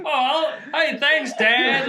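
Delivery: high-pitched, hammed-up gushing through laughter; mock-delighted son. Wrestler thanking his supposed dad at the zoo, mock-delighted. Mock family storyline reunion quote.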